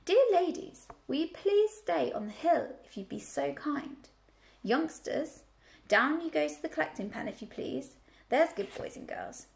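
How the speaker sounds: high, courteous request to the sheep; Babe, lightly voiced, gently asking the flock; polite piglet. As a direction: ask the ewes ever so nicely.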